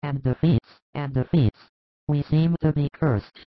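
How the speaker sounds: sighing out a complaint, subdued; downhearted sigh. A narrator's reading. James lamenting to Jesus, soft and downhearted. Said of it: "A downhearted sigh of James".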